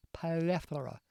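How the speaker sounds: "Plethora" with the tongue out on the th. Shown as a demonstration. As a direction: stretch "Plethora", tongue poking out for the th. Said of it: "You gotta stick your tongue out".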